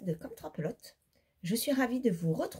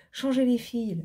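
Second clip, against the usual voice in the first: exasperated; 2 semitones higher, 5 dB louder than usual. Real, not acted. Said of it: "ça m'a saoulée".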